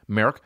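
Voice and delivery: "Merck" asked with an Irish vowel; Irish pronunciation. Retold or imitated. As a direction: say "Merck" for Mark, Irish style, rising. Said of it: "That's how they say it in Ireland".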